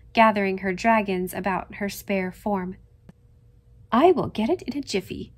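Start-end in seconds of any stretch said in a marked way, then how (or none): 3.9-5.3 briskly. A narrator's reading. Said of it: "said Susan briskly".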